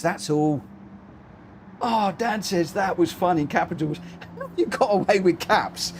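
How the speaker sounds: ordinary talk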